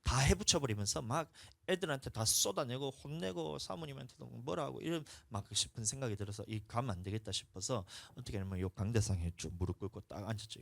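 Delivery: ordinary talk, nothing marked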